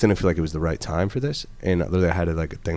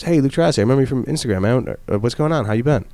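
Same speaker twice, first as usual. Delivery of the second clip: excited greeting; 7 semitones higher, 3 dB louder than usual. Retold or imitated. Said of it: "Jesse Itzler goes".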